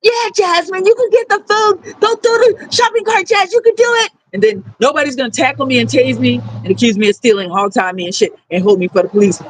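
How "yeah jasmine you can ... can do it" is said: much higher, sweet welcoming voice; imitating Pastor Katie. Pastor Katie waving Jasmine through for the food, in a high sweet voice. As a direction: play the pastor calling her over kindly. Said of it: "and then she's gonna go".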